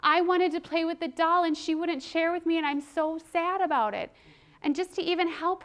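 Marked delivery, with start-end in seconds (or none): 0.0-4.1 put-on child finding words. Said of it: "she could say".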